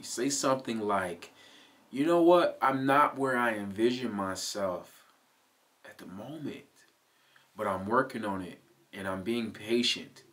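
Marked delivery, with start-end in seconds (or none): 1.9-10.2 gentle self-talk. Shown as a demonstration. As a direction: talk yourself down gently like a friend. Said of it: "Do you hear the difference in that?".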